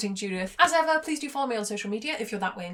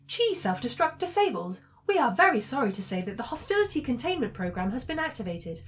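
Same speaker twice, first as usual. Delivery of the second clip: lightly voiced apologetic ship computer; polite ship announcement; 3 semitones higher than usual. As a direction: deliver a courteous automated announcement with mild theatrical regret.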